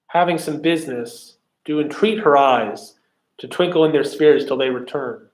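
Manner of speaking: singsong recital, beating out "i AM too BOLD"; exaggerated iambic rhythm. Shown as a demonstration. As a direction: recite in an overdone weak-strong pulse, as in "she SPEAKS". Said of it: "This is exaggerated".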